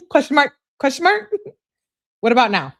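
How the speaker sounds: high-pitched questions through giggles; laughing mock pestering. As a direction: pester playfully while cracking up.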